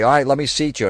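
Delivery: put-on girl at the host desk; mimicked hostess. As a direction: chirp it like a mock hostess. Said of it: "And then the girl goes".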